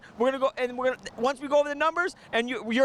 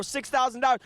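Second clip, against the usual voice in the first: deliberate, slower price read. Shown as a demonstration. Dealer repeats the cash offer slowly for viewers. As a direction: spell out the number slowly. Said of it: "Let me say it a little slower".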